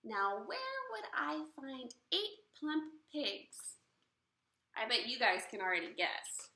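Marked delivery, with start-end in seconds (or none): 0.0-3.8 witch musing. Acted. Witch wondering aloud.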